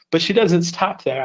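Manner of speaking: salesy pitch with a falling punch on doesn't; infomercial voice. Acted. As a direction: sell it like a TV ad. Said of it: "I kinda sound like an infomercial there".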